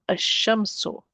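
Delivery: Ash-shamsu with doubled SH, no L; lam dropped. Shown as a demonstration. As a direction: glide from A straight into SH in Ash-shamsu. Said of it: "not pronouncing the lam".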